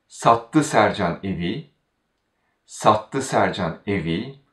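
sattı carries the weight at the start; stress on sattı. Shown as a demonstration. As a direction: lean on sattı first. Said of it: "then the stress falls on the verb".

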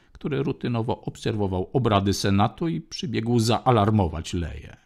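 usual speaking voice

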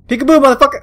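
loud taunting yell; hammed-up peekaboo; mock taunt. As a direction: jeer at it. Taunting again.

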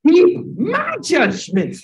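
every word spaced out slowly, MY stressed; slow teaching stress on my; slow emphasis. Shown as a demonstration. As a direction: drill the words into the class slowly. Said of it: "And you will what?".

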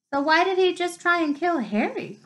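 indignant rising protest; urgent cry. A narrator's reading. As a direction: cry it out at the big friend. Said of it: "cried Hermione".

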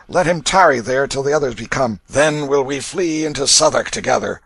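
growled. A narrator's reading. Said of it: "He growled these words".

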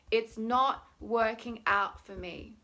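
slow, mildly whining complaint; a touch of a whine, words dragged out; measured, frustrated whine; whiny. Shown as a demonstration. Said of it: "in a very whiny voice".

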